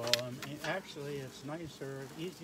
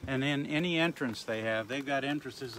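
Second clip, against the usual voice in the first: raised, projected explanation; louder instructional voice; projecting to crowd; 6 dB louder than usual. Real, not acted. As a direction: speak up so the back rows hear. Projecting for crowd that can't hear.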